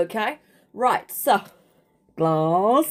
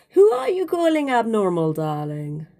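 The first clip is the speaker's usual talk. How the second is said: sassy indignant. Acted. Indignant retort to critics.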